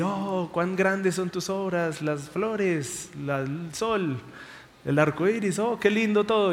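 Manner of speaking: suave y lento, embelesado; feliz. Retold or imitated. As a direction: como quien admira la creación, suave. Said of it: "de repente estaba feliz". (feliz y embelesado, en voz baja)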